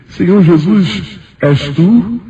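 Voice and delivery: high, drawn-out awed question; re-enacted wonder, rising on the question; thrilled awe. Believer asks whether it is Jesus, high thrilled awe. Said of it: "eu pude vibrar e disse".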